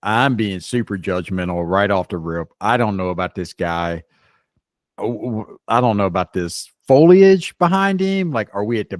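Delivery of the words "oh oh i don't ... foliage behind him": high, loud disbelief at the backdrop; rising up in mock outrage at the scenery; scoffing at the beach behind him; incredulous outburst. Real, not acted. Reacting to the video thumbnail.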